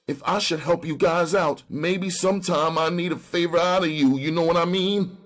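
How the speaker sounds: high, whining hustler. Acted. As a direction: whine out the request. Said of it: "in that whining voice of his".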